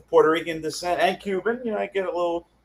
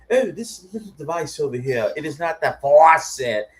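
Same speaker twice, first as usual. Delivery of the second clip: mock British accent; 3 semitones higher, 4 dB louder than usual. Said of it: "he goes like this".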